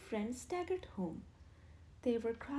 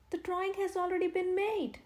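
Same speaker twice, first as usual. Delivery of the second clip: higher, louder out-of-breath gasp; puffing; 8 semitones higher, 6 dB louder than usual. A narrator's reading. Stanley out of breath from running tells Henry, puffing. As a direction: puff it out after running. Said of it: "puffed Stanley".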